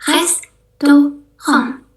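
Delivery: "Restaurant" very slow, hastohon; French pronunciation. Shown as a demonstration. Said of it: "kita bacanya restaurant". (ucapkan pelan "Restaurant")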